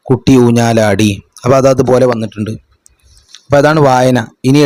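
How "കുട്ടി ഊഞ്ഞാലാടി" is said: slow reading. Shown as a demonstration. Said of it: "താഴെ കണ്ടോ".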